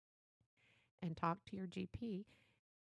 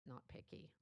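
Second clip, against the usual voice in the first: softer, whispered "not picky"; whispered aside; 7 semitones lower, 11 dB quieter than usual. Shown as a demonstration. Repeats the key phrase twice.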